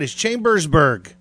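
"Chambersburg" said loud with a lingering "bers"; long second syllable. Shown as a demonstration. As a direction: lean heavily on the middle of "Chambersburg". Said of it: "that second syllable is longer than it should".

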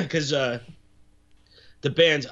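choking on a French fry; coughing, throat half blocked. Real, not acted. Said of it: "I'm sorry if I'm choking".

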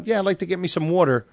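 brisk mock New Yorker; New York accent. Shown as a demonstration. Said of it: "you know, New York going".

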